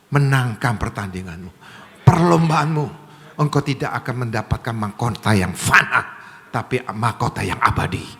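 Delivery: low-pitched, forceful preacher's charge; preaching exhortation. Real, not acted. Preacher urging the flock toward an eternal crown, forceful preaching. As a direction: urge the congregation on, rising into a call for applause.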